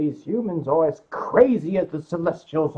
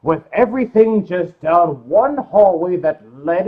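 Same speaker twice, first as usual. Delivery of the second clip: loud, slow, stressing each word; loud emphatic rant; 10 dB louder, slower than usual. Real, not acted. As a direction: hammer home how big it was. Emphatic rant about the hotel.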